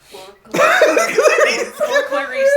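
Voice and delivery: mock solemn toast, laughing, high and loud, slow. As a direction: raise a glass through giggles. Player toasts the dead piano.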